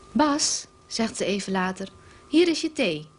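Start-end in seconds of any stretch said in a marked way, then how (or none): 0.1-0.7 calling sweetly. A narrator's reading. Wife calls husband. 2.3-3.1 overly sweet. A narrator's reading. Wife serves tea sweetly.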